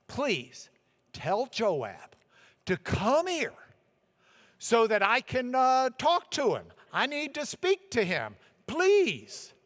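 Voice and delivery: earnest, courteous asking, rising on please; sweet polite plea. Acted. Wise woman politely asking soldiers to fetch Joab, sweet pleading. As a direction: plead gently but insistently. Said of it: "She's using speech that is sweet".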